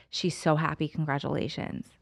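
soft, tender well-wishing; heartfelt and smiling. Retold or imitated. Prison worker sending a message, quietly heartfelt. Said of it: "big breath and this beautiful smile".

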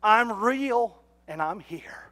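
talking to a duck. Retold or imitated. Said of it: "You know what I'm telling them?".

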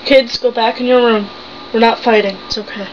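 acted motherly hush, trailing down on the reassurance; reassuring mother. Mother reassures children mid-argument.

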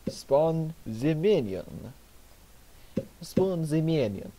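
sudden mock Russian accent; slipping into a Russian accent, unbidden. Real, not acted. Gamer commentating his minigame in a Russian accent. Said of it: "Because I sound Russian".

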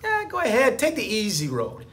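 lightly voiced lazy tempter; mild mock coaxing; lizard brain voice. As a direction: talk yourself out of the push-ups. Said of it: "it says".

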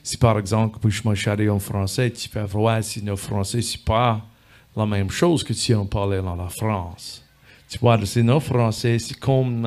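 speaking French the Illinois Missouri way; Illinois French demo. Shown as a demonstration. Showing a festival crowd how Illinois French sounds. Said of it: "It does sound different".

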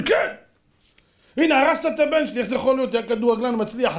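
high, indignant mock complaint; heated accusation. Father blaming the rabbi for his son, high indignation.

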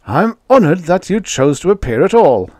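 high, loud, icy politeness; honoured, with a cold edge. A narrator's reading. Ambassador greets his late subordinate, coldly, high and loud. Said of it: "said Magnan coldly".

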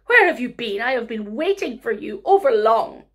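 loud, whiny demand; spoilt complaining. Acted. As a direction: complain loudly like a spoilt girl. Spoilt girl complains to old man.

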